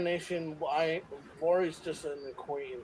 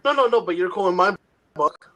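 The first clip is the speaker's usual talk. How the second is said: emphatic protest; 2 semitones higher, 9 dB louder than usual. Real, not acted. Insisting he's not into Lori.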